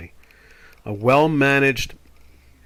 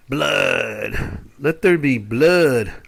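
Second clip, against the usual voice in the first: dramatic proclamation; much slower than usual. Acted.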